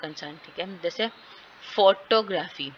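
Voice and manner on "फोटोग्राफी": "फोटोग्राफी" with a strong first फो; deliberate FO-to-graphy for "फोटोग्राफी"; syllable stress demo. Shown as a demonstration. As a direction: stress फो, then let ग्राफी fall in "फोटोग्राफी". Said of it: "वो primary syllable है".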